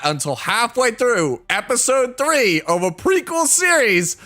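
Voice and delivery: can't believe a friend missed it; incredulous rant. Retold or imitated. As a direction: argue it can't be true.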